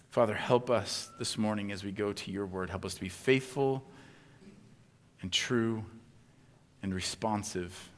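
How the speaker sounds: quiet, hushed prayer. Real, not acted. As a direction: pray softly to open the sermon. Opening prayer.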